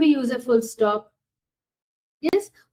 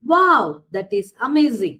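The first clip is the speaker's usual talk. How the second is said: a bright, louder wow for a strong feeling; exclamation demo; 5 dB louder than usual. Shown as a demonstration. Teacher reading an exclamation example to students, mildly amazed. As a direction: act out the surprise, leaning on Wow. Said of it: "it is showing a strong feeling or surprise".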